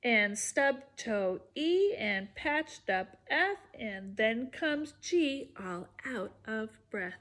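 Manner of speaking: sing-song storybook read-aloud; lively read-aloud rhyme voice; reading to children. Acted. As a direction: bounce the rhymes for little listeners. Reads picture book to kids.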